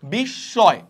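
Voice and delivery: বিস্ময় as bish-shoy; doubled consonant. Shown as a demonstration. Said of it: "দ্বিত্ব হচ্ছে দুইবার উচ্চারণ হবে".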